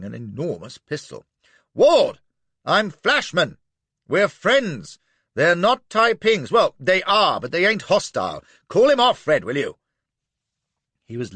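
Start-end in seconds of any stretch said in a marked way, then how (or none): 1.7-9.8 high, loud pleading calls; frantic shouted reassurance; urgent shouting. Acted. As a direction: shout to stop the gunfire. Shouting to Ward across danger.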